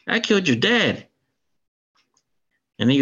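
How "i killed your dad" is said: higher, menacing villain boast; demon's confession. Retold or imitated. Demon gloating to the hero about killing his father, mock menacing. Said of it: "He goes".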